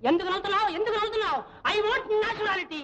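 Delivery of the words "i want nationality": each word dragged out very slowly; a director insisting slowly on emotion; slow emphatic demand. Real, not acted. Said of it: "ఈ serious scene అమ్మా".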